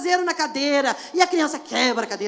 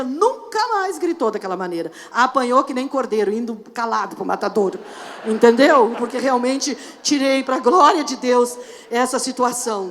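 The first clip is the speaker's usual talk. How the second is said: normal talking voice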